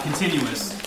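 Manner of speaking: normal talking voice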